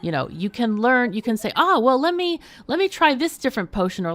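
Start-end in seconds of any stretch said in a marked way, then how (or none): 1.6-4.0 high, lively musing; player thinking aloud. Pretend. Player musing over new ways to succeed, lively thinking aloud. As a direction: perk up with a fresh idea.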